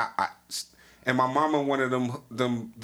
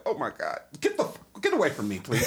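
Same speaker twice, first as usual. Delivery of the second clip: mock exasperated recoil; 2 semitones higher than usual. Man fending off someone crying on him, mock exasperated. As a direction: push them away in playful horror.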